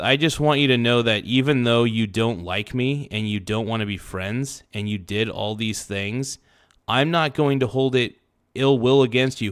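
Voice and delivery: ordinary talk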